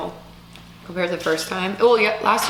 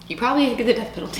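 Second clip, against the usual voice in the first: laughing; 5 semitones higher, faster than usual. Real, not acted. Joking about harsh litter laws.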